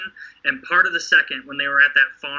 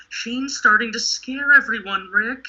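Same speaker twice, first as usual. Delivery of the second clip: whispering worried townsfolk; 7 semitones higher than usual. Retold or imitated. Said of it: "being like".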